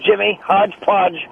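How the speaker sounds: halting comic with odd pauses; Colin Quinn. Acted. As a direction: swallow the words, pausing between phrases. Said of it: "As Colin Quinn once said".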